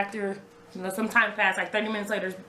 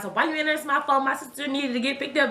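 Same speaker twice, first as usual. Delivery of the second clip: retold scolding in a higher pitch; going in on him; 6 semitones higher than usual. Fiancée demanding why he missed her calls, retold scolding. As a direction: replay a pointed telling-off. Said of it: "trying to go in on him".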